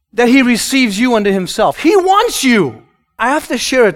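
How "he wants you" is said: "wants" drawn out, high and slow; stress on wants. Acted. Preacher telling the congregation he wants you, slow stress. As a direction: lean hard on "wants".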